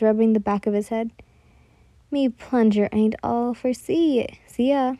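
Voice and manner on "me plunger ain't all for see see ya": slow put-on pirate drawl; pirate accent. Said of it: "Pirate talk doesn't really suit ya".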